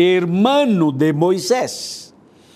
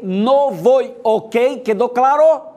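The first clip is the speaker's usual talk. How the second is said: higher, insistent voicing of a reluctant servant; stubborn refusal; 4 semitones higher than usual. Moses telling the Lord he won't go, higher and insistent. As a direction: plead and refuse, hammering each "yo". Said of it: "Ahora quiero hablar de manera muy clara".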